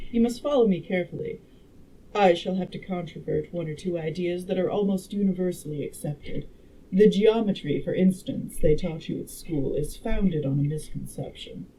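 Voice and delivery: lightly voiced, emphatic woman lecturer; a hint of a learned lady, punching key words; time traveler as a girl. Time traveler instructing the dinner guests, lightly voiced clever girl. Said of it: "make the time traveler a girl".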